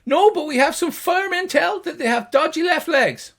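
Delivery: high, loud gnome; gnomish voice. Acted. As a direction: report loudly in a tiny high voice. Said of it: "the two high-pitched gnomish voices".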